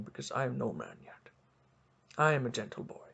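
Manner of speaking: put-on soft gentle boy. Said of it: "I'm a nice, gentle boy".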